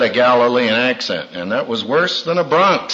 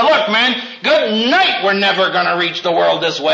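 retold pep talk; 6 semitones higher than usual. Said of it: "I said".

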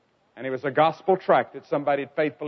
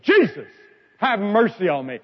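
imitated yell; 2 semitones higher than usual. Preacher retells the beggar calling Jesus, mild imitated yell. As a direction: re-enact the beggar's call for mercy. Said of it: "he yelled at the top of his lungs".

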